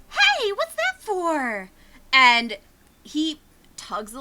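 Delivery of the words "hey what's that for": put-on high, slow, whiny kid protest; a little boy caught out; startled child. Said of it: "he goes".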